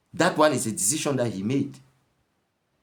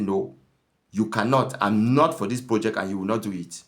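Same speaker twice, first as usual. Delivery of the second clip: firm raised refusal; nagging wife; 3 dB louder than usual. Retold or imitated. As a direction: flatly forbid him, louder. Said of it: "that is the tone of the woman".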